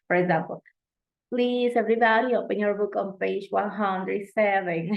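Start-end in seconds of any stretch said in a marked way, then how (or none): 1.3-4.9 classroom teacher. Retold or imitated. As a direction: address the whole class. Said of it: "I used to say".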